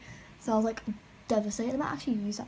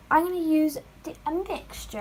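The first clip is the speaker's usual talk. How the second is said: raised voice over noisy neighbours; talking really loud; 4 semitones higher, 4 dB louder than usual. Real, not acted. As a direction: speak up loudly, pitched higher. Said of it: "I'm gonna talk really loud".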